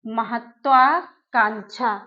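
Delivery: महत्वाकांक्षा said slowly with the full क्षा; careful pronunciation. Shown as a demonstration. Teacher demonstrating the word slowly. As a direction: draw out महत्वाकांक्षा clearly. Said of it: "देखिए इसमें भी".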